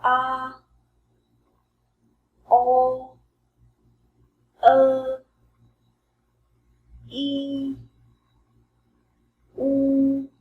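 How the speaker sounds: drawn-out Chinese finals A, O, E, U, U, each held; teacher modelling Chinese vowels; finals read out. Shown as a demonstration. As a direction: model each vowel slowly for students to copy. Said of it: "quick review for you guys, uh, for the practical finals".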